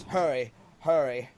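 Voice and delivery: loud urgent hurry; urgent call. Acted. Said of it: "It says".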